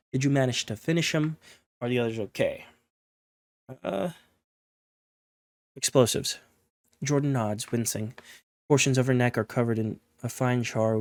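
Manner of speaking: steady storyteller reading a game's text; story narration. A narrator's reading. Reading the game's story to viewers, in narration voice. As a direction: read the scene like an audiobook. Reads interactive vampire story aloud.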